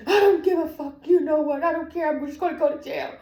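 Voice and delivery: high, loud, defiant wail; retold crying outburst. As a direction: yell it through tears, past caring. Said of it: "I'm crying while I'm driving".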